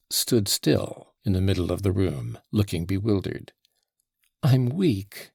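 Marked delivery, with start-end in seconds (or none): 4.4-5.3 exhausted. Acted. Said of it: "she said in an exhausted voice".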